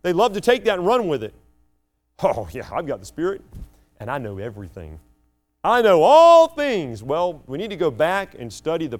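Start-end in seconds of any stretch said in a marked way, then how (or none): 2.2-7.0 smug elite mockery. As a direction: sneer it like a proud insider. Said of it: "the ones that like the elite".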